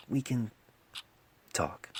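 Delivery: fading down to a whisper; soft invitation. Acted. Doctor gently offering to talk after the death, fading to a whisper. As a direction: let it trail into a whisper. Poultice softly offers comfort.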